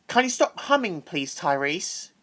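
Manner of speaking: bossy teacher scolding a pupil; with an attitude. Retold or imitated. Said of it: "but with an attitude".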